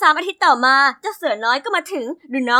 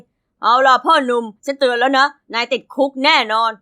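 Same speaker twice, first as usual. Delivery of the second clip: police officer; 2 semitones lower than usual. Acted. Police officer arrests protester.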